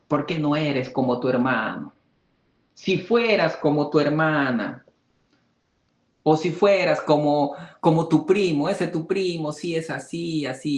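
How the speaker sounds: mock a scolding parent comparing you; a hint of a disapproving mother; nagging parent. Parents comparing child with siblings.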